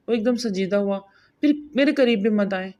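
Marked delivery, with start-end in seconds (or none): 1.4-2.7 firm and a little louder, refusing him; a touch of stern refusal. Acted. Wife refusing her husband, stern and firm. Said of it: "وہ سخت لہجے میں بولی۔".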